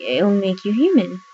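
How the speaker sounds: mock-dramatic, pitch swooping on human; mocking quote. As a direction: make the retold promise sound silly. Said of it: "how stupid does that sound?".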